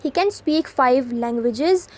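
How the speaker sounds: very slow, each word set apart; slow dictation read. Shown as a demonstration. Teacher reading an example sentence to students, very slow. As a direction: spell it out slowly for the class.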